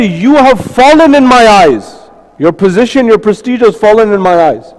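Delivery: mildly offended ruler looking down on him; a touch of scornful disappointment; upset. Acted. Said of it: "He got upset".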